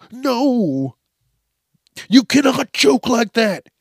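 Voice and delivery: high, loud scolding bark; angry cop. Pretend. Cop scolding the star for joking, high loud bark. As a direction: shout him down as the cop.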